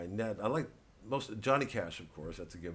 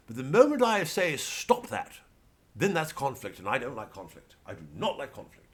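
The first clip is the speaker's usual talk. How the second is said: konfliktscheuer Typ; 4 semitones higher, 4 dB louder than usual. Pretend. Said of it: "I did something for the patrons recently about".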